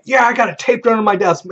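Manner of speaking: high-pitched mock protest; acted insistence. Player arguing about his taped gun, high acted insistence.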